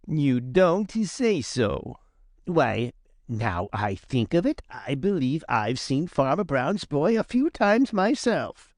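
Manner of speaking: slow, drawn-out teasing voice; sarcastic drawl. Acted. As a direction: stretch it out mockingly. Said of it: "pretending to be very much surprised".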